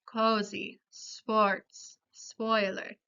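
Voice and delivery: "cozy, sports, spoiler" with a rounded Spanish O; Spanish O vowel. Shown as a demonstration. Teacher giving examples, "cozy, sports, spoiler" with Spanish O. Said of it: "continúa con esa pronunciación".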